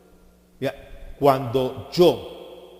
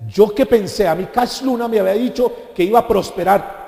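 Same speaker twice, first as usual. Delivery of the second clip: louder, mock complaining Peter; grumbling Pedro; 4 semitones higher, 4 dB louder than usual. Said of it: "Y comenzó a renegar". (Pedro quejándose, en broma, con voz más fuerte)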